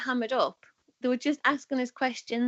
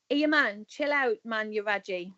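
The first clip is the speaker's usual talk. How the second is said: Sunderland example line. Shown as a demonstration. Guest shows the host how to use raji, Sunderland accent. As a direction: show how a Mackem would say it, easy and casual. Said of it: "so I'll give you an example".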